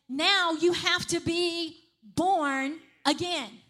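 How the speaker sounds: slow, solemn Now you have to be born again; voicing Jesus. Preacher voicing Jesus telling people to be born again, slow and solemn. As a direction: let Jesus speak, slow and weighty. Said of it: "Jesus came and said".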